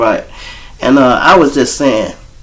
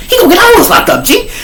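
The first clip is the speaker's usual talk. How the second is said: laughing; faster than usual. Retold or imitated. Friend voiced laughing.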